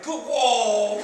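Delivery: half laughing, call out to the boat; excited call. Retold or imitated. Waving at camera boat.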